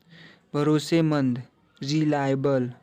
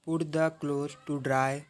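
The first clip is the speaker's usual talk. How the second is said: slow, deliberate teacher read; slow English phrase for learners; slow demo; 5 dB quieter, much slower than usual. Shown as a demonstration. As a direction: spell it out slowly for the class. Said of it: "teacher demonstrates English phrase".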